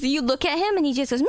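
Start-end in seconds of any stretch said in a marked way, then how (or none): 1.2-1.3 high, drawn-out cat impression; imitated high meow; Calcifer meowing. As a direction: yowl it like an insistent cat.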